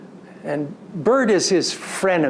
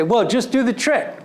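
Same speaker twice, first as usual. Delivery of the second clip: light, encouraging nudge, a bit raised; patient coaxing; 7 semitones higher than usual. Retold or imitated. Dad coaching his fallen son, patiently encouraging. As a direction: coax him along, still patient.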